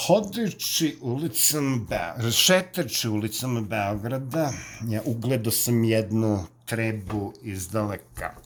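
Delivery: Belgrade street-slang storytelling; Belgrade accent. Shown as a demonstration. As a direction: spin a yarn in Belgrade dialect. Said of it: "Let's go, uh, Belgrade".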